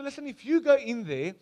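stern warning. Retold or imitated. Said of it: "he says to them".

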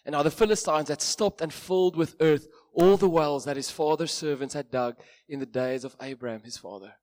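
measured Bible reading to a congregation; scripture reading. Acted. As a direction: read the passage with weight. Reads Genesis passage aloud.

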